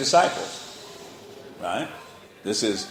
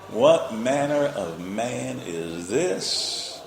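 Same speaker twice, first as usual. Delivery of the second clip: very slow, marveling reading; awed scripture reading; much slower than usual. Acted. Astonished men marveling at Jesus, read very slowly. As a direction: let the wonder stretch out.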